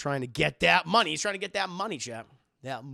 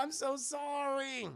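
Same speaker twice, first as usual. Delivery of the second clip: hammed-up apology; 10 semitones higher, 5 dB quieter, slower than usual. Reenacted apology.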